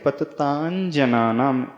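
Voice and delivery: पततांजनानाम said slowly with the nasal before ज; slow careful reading. Shown as a demonstration. Teacher demonstrates पततांजनानाम to students. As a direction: read पततांजनानाम deliberately. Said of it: "तो इसे कैसे पढ़ें?".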